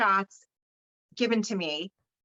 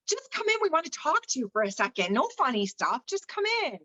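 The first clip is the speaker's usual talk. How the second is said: imitating her friend, coaxing and much higher; 7 semitones higher than usual. Friend coaxing the birthday girl into the bedroom, high and sweet. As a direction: lure her in sweetly, pitch way up.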